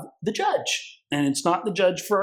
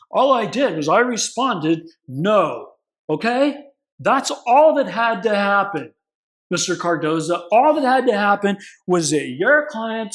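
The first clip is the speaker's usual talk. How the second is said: higher and louder, a condescending judge telling his story; lecturing judge; 3 semitones higher, 3 dB louder than usual. Retold or imitated. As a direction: lecture the lawyer like a smug judge. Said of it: "So here comes the law school story".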